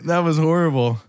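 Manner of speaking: breathless after holding breath. Real, not acted. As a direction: gasp it out after no air. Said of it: "but I was laughing".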